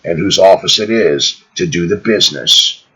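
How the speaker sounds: measured read-aloud, slowing at the close; formal book reading. Acted. Narrator closing a chapter for listeners, measured formal reading. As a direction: read it out deliberately, with pauses between phrases.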